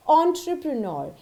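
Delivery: ENTREPRENEUR as "on-truh-pruh-NOR"; correct pronunciation. Shown as a demonstration. Teacher introduces a common word, entrepreneur as "on-truh-pruh-nor". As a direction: open entrepreneur with "on". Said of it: "It is always entrepreneur".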